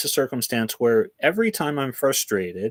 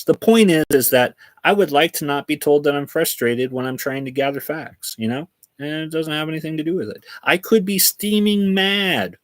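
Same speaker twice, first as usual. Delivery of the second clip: louder and higher, pushing the point hard; heated rant; 4 semitones higher, 3 dB louder than usual. Real, not acted. Complaining that AI calls him frustrated, heated and louder. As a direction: hammer the point home, worked up.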